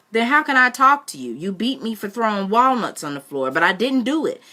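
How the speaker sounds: put-on boy insisting he is innocent; desperate boy. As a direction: plead innocence with heat. Boy defends himself.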